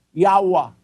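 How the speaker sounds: "Yawa" with an open A in each syllable; Yawa with both vowels A. Shown as a demonstration. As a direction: say "Yawa" as YAH-wah. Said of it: "May naglagay puro A". (bigkasing "Yawa" na puro A ang patinig)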